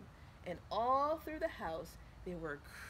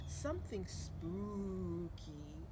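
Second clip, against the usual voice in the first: 1 mother's voice; 4 dB quieter, much slower than usual. Acted. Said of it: "mother voice rejecting costume".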